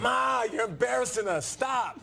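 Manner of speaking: put-on a kid begging mom to hang up; embarrassed son. Son voice pleading with Donna.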